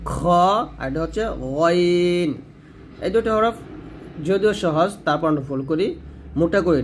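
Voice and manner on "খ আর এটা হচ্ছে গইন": খ and গইন thick, from the top of the throat; heavy throat letters. Shown as a demonstration. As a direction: draw out a full-mouthed খ and গইন. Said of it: "দুটো হরফ মোটা করতে হবে". (মোটা করে খ, গইন)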